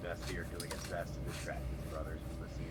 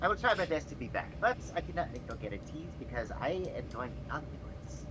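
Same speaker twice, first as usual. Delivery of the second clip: put-on boy's promise; 6 semitones higher than usual. Vestir answering the kittens.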